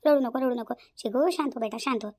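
put-on repetitive hushing of a crying child; soothing a baby. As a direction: gently coax the baby to settle. Mother soothing her crying baby. (रडणाऱ्या बाळाला समजावत)

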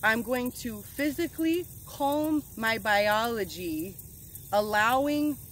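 slowed down, picking each word. Real, not acted. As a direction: restate it slowly and carefully after stumbling. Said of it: "let me wizard my words".

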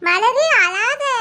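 drawn-out, coaxing plea not to cry; very slow, lingering comfort for a weeping friend; consoling. Acted. அழும் தோழியை சமாதானப்படுத்துகிறாள். (ஆறுதலாக, இழுத்துச் சொல்வது)

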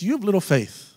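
Jesus. Retold or imitated. Preacher imitating Jesus correcting the disciples, mildly mad. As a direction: act out a mild, mad telling-off. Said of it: "He's getting mad at them".

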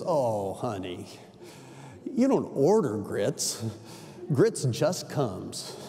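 slow, soft, knowing drawl; southern waitress. Retold or imitated. Waitress explaining grits to the New York customer, slow and gentle. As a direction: lean in and tell him kindly, slowly. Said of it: "she says".

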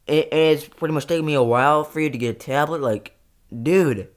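loud, high, near-tearful yelling; screaming rant. Acted. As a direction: scream your grievances at him. Acted quarrel, screaming at twin.

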